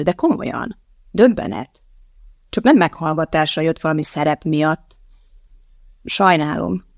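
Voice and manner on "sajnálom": plain reading voice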